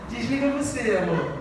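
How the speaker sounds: giggling lovey phone voice; giggly late night call. Retold or imitated. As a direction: coo it, giggling, to a sweetheart.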